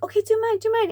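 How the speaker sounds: put-on high, loud child begging for her turn; a small girl asking for her own wings; eager little girl. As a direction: act the kid pleading "do mine". Voicing the eager five-year-old.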